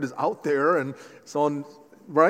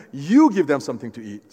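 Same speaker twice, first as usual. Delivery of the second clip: You leaned on, louder than the rest; stress on You; 2 semitones lower, 5 dB louder than usual. Shown as a demonstration. Preacher repeating Jesus' challenge: stress You. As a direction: firmly point the finger with You. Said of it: "Not me, not them".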